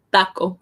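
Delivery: "taco" with a soft Spanish T. Shown as a demonstration. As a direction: say "taco" with tongue behind the teeth. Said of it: "it's softer than in English".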